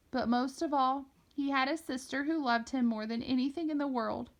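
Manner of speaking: tender, holding back tears. Acted. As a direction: tell the dead brother his story, lovingly. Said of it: "forcing back tears".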